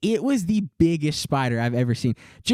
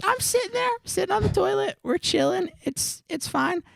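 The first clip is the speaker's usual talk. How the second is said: mock calm; 3 dB quieter, faster than usual. Calm before the spider scare.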